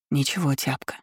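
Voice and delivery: soft exhaled words; breathed out. A narrator's reading. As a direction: breathe it to the dog gently. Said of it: "выдохнула я". (выдохнуто тихо)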